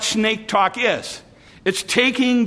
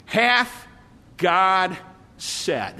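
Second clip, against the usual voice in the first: serpent voice; much slower than usual. Retold or imitated. Pastor voicing the serpent questioning Eve, drawn out and sly. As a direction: draw it out slowly, each word hanging. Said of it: "the serpent said".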